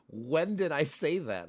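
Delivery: hammed-up feigned innocence, slow and high; mocking the brother. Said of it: "He literally goes".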